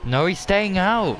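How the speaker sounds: excited. Real, not acted. Excited live race call.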